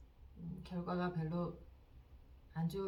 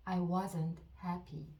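very slow, each word spaced out for repeating; dictation-slow teacher read; slow model sentence; much slower than usual. Shown as a demonstration. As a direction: say it slowly so learners can follow. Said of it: "듣고 따라해 보세요".

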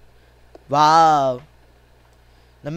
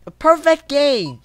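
exasperated exclamation; 5 semitones higher than usual. Real, not acted. Player reads out hopeless scorecard.

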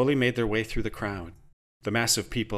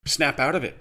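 barked; 4 semitones higher, 3 dB louder than usual. Acted. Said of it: "she barked".

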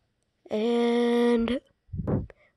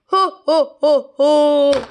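gleeful villain laugh; 4 semitones higher, 6 dB louder, slower than usual. Acted.

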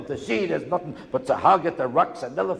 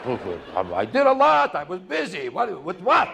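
flustered vacationer; slower than usual. Retold or imitated. Vacationer caught out questioned.

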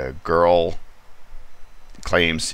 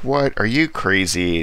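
higher, louder disbelief; incredulous; 5 semitones higher, 4 dB louder than usual. Retold or imitated. Shop owner scoffs at the detective's theory, incredulous. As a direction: scoff at the idea in shock. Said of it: "she's like".

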